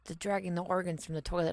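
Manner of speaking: hushed, excited whisper. Retold or imitated. Imitating the co-writer's pleased idea, whispered. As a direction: breathe it like a delighted secret. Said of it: "and then you're like".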